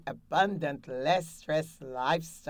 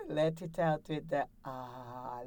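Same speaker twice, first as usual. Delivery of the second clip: breathing exercise; 5 dB quieter than usual. Shown as a demonstration. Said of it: "One more time".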